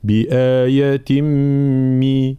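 بآية مي recited slowly with distinct i vowels; measured correct tajweed demonstration; clear kasra. Shown as a demonstration. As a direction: draw out بآية and finish on a pure مي. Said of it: "بين كسر التاء".

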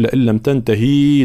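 لئن لم تنتهي with the final هاء given a vowel; wrong reading. Shown as a demonstration. Teacher shows the mistaken تنتهي. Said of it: "لا، هنا ليست هاء كناية".

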